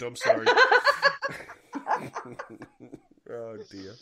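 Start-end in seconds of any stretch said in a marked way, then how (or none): 0.5-1.5 high giggling burst; cracking up despite apologizing; high laugh. Real, not acted.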